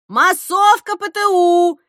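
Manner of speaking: loud, slow call over the crowd; "Массовка П Т У!" called out slow and loud; calling the crowd loudly, administrator style; booming call. Acted. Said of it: "зычно прокричала администраторша".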